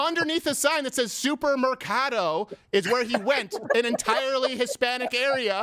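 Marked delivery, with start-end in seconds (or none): 1.1-2.5 put-on Spanish accent. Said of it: "really good Spanish accent you got going there".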